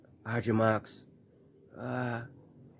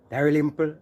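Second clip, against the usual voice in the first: loud, raised call of the name; 3 semitones higher, 4 dB louder than usual. Real, not acted. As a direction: call "Dalrymple" out like a roll call. Announcing next name on list.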